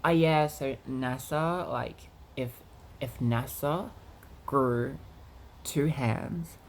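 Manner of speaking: lightly put-on voice of another person; a rough, hesitant mimicry, close to own voice; halting imitation with small pauses; Caitlyn. Shown as a demonstration. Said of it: "she comes across like this".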